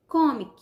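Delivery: "Comic" with CO punched high and loud; stress on CO. Shown as a demonstration. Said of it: "teremos acento no co".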